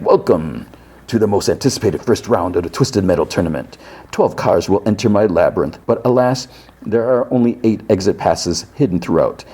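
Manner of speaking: lightly voiced tournament host; Calypso. Calypso welcomes drivers to the tournament, lightly grand. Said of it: "And Calypso comes in".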